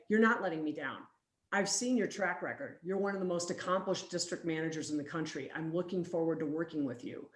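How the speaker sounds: soft, low, steady reassurance; reassuring. Retold or imitated. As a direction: quietly reassure a worried employee. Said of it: "reassure her and say".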